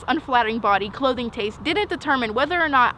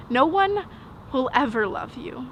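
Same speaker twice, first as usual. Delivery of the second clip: halting, pitched up on "No one", then sinking; a hurt verdict on oneself; bleak self-rejection. Acted. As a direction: pause after "No one", then let "will ever love you" fall away. Self-hating words to mirror at twelve.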